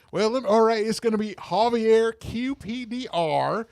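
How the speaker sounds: a hint of a polite white caller; white people voice. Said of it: "my white people voice".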